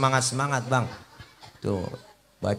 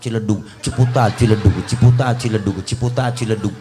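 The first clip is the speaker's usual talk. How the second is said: drum imitation; 3 semitones lower, 3 dB louder than usual. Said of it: "tabuh kencang".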